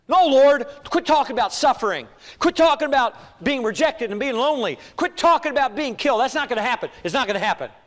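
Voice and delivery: acted-out loud, high refusal easing at the end; indignant protest. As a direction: protest forcefully, hammering each refusal. Acts out Peter rebuking the Lord.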